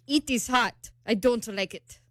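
lightly faked Italian accent; bad Italian accent. Woman quoting her date arriving at the bar, bad Italian accent. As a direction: imitate an Italian man, accent badly done. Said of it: "that was a really bad accent".

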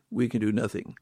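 quiet echo. Real, not acted. Preacher echoing his point to the congregation, softly. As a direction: repeat it softly, almost to yourself.

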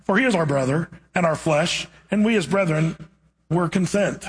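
measured, solemn Bible reading; scripture reading. Acted. Preacher reading Genesis to the congregation, solemn reading. Reads scripture passage aloud.

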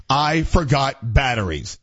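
drawn-out ominous line; slow spooky ad read; slow dramatic read. Shown as a demonstration. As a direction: stretch it slow and heavy. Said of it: "I think I say it like this".

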